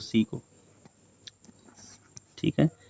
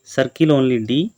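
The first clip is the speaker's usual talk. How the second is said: slow task reading; much slower than usual. Shown as a demonstration. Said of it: "reading the task aloud".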